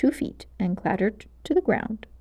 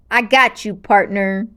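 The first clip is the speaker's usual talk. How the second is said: crowing; 5 dB louder than usual. Acted. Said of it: "Garrett crowed".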